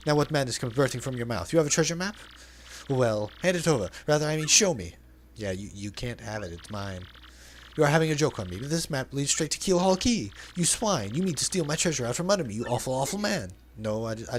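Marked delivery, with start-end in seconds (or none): 0.1-5.0 flamboyant merchant voice, lightly put on; theatrical braggart reading; hammed-up Flavio. 7.8-13.5 flamboyant merchant voice, lightly put on; theatrical braggart reading; hammed-up Flavio.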